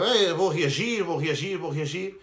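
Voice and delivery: mocking impression. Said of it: "foi reagir, claro".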